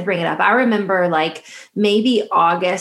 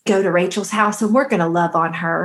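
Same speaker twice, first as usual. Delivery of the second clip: put-on Southern accent. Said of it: "You didn't do it with the Southern accent".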